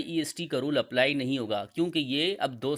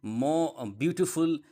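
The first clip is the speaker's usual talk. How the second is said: slow model word; much slower than usual. Shown as a demonstration. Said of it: "जैसे कि".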